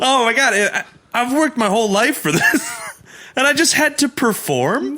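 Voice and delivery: high, laughing disbelief. Retold or imitated. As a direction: laugh while complaining. Voicing skater, laughing.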